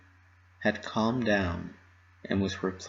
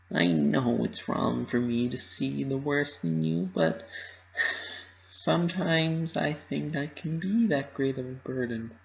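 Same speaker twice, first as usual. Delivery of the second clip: Pinkie Pie voice; 5 semitones higher than usual. Acted. Pinkie admits feeling a burden.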